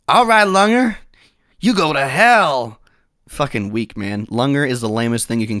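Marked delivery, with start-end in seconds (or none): 0.1-2.8 high, louder, slurring taunt; drunk Ringo retort. Acted. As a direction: fling it high like a sloppy drunk outlaw. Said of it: "Ringo retorts like".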